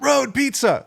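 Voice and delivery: high gleeful shout of the name; a kid's gleeful chant; excited kid call. Retold or imitated. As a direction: yell it like kids in the street. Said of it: "we'd be like".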